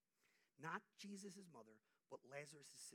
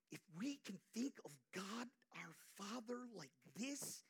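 whisper; 5 semitones higher, 4 dB louder than usual. Acted. Whispered sermon aside.

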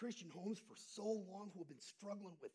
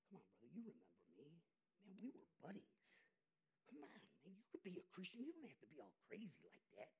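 soft, much lower coaxing whisper of temptation; tempting voice; 5 semitones lower, 13 dB quieter, faster than usual. Acted. The world's voice tempting a believer, soft and coaxing. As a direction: lure him back like an old buddy. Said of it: "Anybody ever heard those voices?".

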